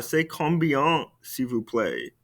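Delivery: c'est combien, s'il vous plaît said slowly, falling softly at the end; slow model. Shown as a demonstration. Teacher modelling a polite price question slowly. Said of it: "Répétez-moi".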